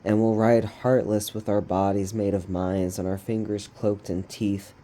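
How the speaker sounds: steady, rhythmic spoken-word reading; poem recitation. Acted. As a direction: fall into an even poetic cadence, pausing between phrases. Reads own poem aloud.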